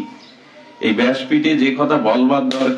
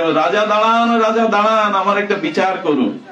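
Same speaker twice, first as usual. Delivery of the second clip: high, urgent call to stop the chariot; wife hailing the king's chariot from the roadside, high calling voice; 7 semitones higher than usual. Acted. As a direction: shout after the chariot, begging it to stop. Wife calls out to passing chariot.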